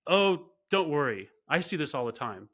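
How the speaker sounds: offhand doctor shrugging off the news; nonchalant. Retold or imitated. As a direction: brush it off like it's nothing. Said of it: "He said it in a very nonchalant way".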